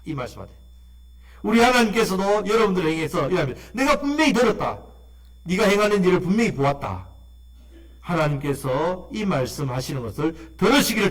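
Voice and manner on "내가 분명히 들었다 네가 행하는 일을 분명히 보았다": a hint of God assuring his people; voicing God. Pastor voices God speaking.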